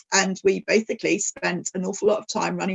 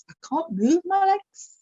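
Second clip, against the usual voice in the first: mock despairing wail; 10 semitones higher than usual. Her frustrated reply.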